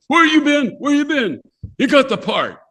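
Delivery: high, urgent retold shouting; excited caller. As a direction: imitate someone bursting with good news. Retold excited phone caller with news.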